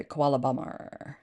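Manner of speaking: "koala bomber" with an American R at the end; "bomber" ending in "er", American style; American pronunciation. Shown as a demonstration. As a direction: sound the final R in "bomber". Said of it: "because in America you would say".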